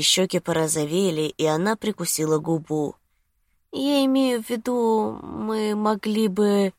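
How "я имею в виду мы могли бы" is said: high, trailing woman's voice; hint and let it hang, pitched up; suggestive girlfriend. A narrator's reading. Lucy hints at staying home, high coaxing voice.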